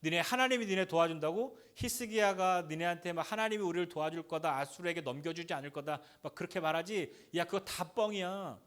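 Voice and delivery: a lightly voiced sneering enemy; mocking taunt. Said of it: "또 하나는 뭐라고 얘기하냐면".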